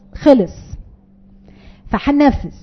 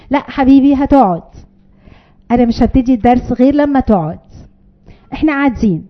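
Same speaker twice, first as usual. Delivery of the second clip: calm firm teacher. Shown as a demonstration. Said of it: "مدرس مدارس أحد".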